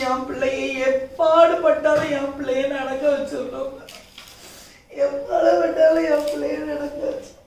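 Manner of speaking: emphatic resolve giving way to crying; tearful vow. Acted. Mother swearing to make her daughter walk, tearful vow. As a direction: vow it through tears. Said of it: "சரி, அழாதீங்க".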